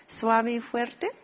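slowly, each word set apart; slow and deliberate. Shown as a demonstration. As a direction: spell out "suave y fuerte" for the class. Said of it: "Y la G". (lento y claro, como maestra)

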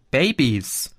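put-on Babys? as a puzzled, lightly surprised question; baffled echo. Chrissy echoes Gio's word, puzzled. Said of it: "fragte Chrissy komplett verwirrt".

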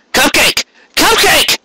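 high, rising call after her. Acted. Carrot chasing Cupcake, calling her name aloud. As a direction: shout her name down the stairs. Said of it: "he called as he followed her".

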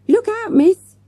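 high, loud shout; girl yelling to save her teacher; yelled warning. A narrator's reading. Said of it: "yelled Avril".

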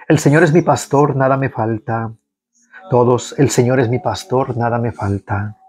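measured liturgical reading of the psalm; psalm recitation. Acted. Prayer leader leading online faithful in psalm, liturgical reading. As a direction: lead the congregation through the psalm.

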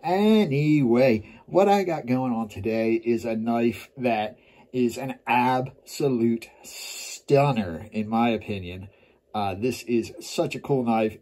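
numb mouth after dentist; talking with a numb mouth. Real, not acted. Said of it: "my mouth is numb".

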